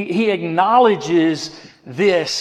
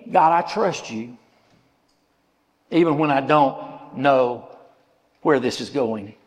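trusting prayer; 4 semitones lower than usual. Acted.

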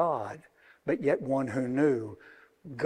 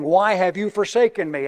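louder, declaimed to the room; raised, ringing question; preached cry; 3 semitones higher, 7 dB louder than usual. Acted. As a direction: proclaim it like a preacher. Preaching the psalm quote.

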